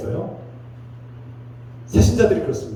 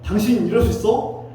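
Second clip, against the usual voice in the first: acted indignant scolding, higher pitched; angry scolding; 6 semitones higher than usual. Pastor imagines scolding Naaman over his idols, angry. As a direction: take someone to task in raised pitch. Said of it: "이렇게 막 화낼 수 있어요".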